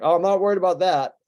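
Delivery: amused brush-off through a laugh; laughing dismissal. Retold or imitated. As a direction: laugh it off to your son. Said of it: "And I'm like".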